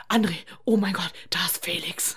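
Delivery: hushed excited whisper to André; breathy hushed alert, star nearby; retold whisper. Whispering to André that Felix is there. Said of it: "Ich drehe mich um zu André".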